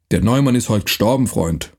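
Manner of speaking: rough dialect voice, lightly done; gruff Franconian watchman. Acted. Night watchman threatening the stranger, gruff dialect. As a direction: bark it like a mercenary guard.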